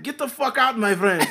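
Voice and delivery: loud, high-pitched mock eviction; acted kicking out. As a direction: throw him out as the imitated shopkeeper. Clerk kicks customer out of store.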